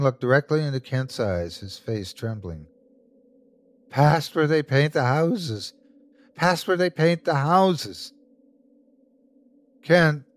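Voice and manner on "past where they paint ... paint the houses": raised, insistent repetition; feverish mantra. A narrator's reading. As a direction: repeat it like a man possessed. Sickly man repeating with trembling face.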